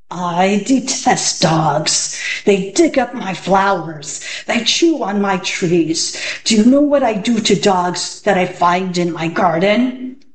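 a hint of a growl, threatening; growling magician. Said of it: "in a voice that was more like a growl".

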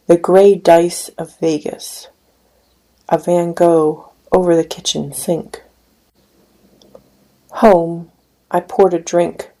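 measured, unhurried poetry recital; poem reading. Acted. Poet reading his poem to an audience, measured recital. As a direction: read each image as a poem, letting lines land.

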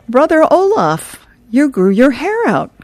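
high, loud hearty Viking greeting; Hagar's booming voice. Acted. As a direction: call out to the monk like a big jolly Viking. Hagar greets shaggy monk.

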